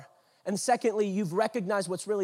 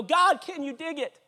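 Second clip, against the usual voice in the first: higher, slow appeal to God; prayerful plea; 4 semitones higher than usual. Acted. Praying to God when an offense comes, pleading. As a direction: call up to God for help. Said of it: "This is a prayer".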